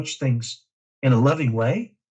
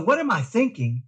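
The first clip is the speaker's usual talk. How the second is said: higher, brighter take of the mantra; the mantra voiced higher, as a reminder; 6 semitones higher than usual. Shown as a demonstration. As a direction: lift it up like a quick self-check. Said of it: "And so".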